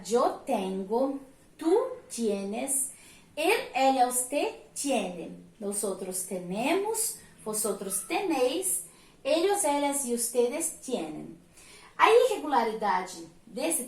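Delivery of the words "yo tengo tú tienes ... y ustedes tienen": slow conjugation drill. Shown as a demonstration. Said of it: "vamos ver como que esse verbo tener".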